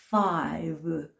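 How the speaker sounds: Five drawn out slowly, each sound separated; slow, artificial pronunciation. Shown as a demonstration. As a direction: overarticulate Five with a distinct f and v. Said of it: "굉장히 천천히 인위적으로 발음을 했는데". (Five를 아주 천천히 인위적으로 늘여서)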